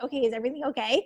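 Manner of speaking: quick, uneasy check-in; imitating a slightly nervous mom. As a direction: ask it fast and a little anxiously. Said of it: "kinda, like, got nervous".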